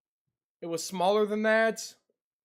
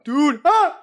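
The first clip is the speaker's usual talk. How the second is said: startled yelp; 8 semitones higher, 11 dB louder than usual. Real, not acted. Bug scare.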